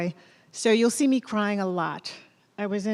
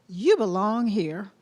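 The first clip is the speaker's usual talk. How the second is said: Southern accent slipping out; slower than usual. Real, not acted. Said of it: "I heard my Southern accent come out".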